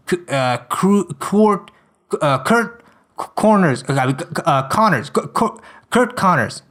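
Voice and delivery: fumbling, slowed mispronunciations of Connors; stumbling over the name. Acted. Brock stumbling over the professor's name. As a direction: grope for the name, trip on each try. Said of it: "I wish I was paying more attention".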